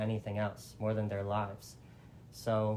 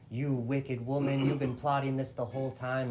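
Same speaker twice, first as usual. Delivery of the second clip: mock-angry denunciation, only slightly raised; turning on her; 3 semitones higher than usual. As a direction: accuse a schemer, drawing out the first words. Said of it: "Dasarat turns on her".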